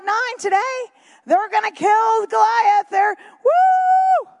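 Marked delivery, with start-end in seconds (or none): 1.3-4.3 rising to a high whoop of joy; excited cheer. Retold or imitated. Preacher voicing the army's battle cry, excited whoop. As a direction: cheer like soldiers sure of victory.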